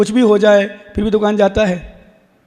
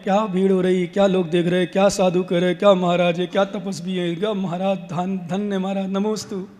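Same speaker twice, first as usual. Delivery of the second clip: thinking to oneself, dropping quieter as it goes; inner thoughts; 6 dB quieter than usual. Acted. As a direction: voice the mind's chatter under your breath. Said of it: "अंदर चल रहा मन में".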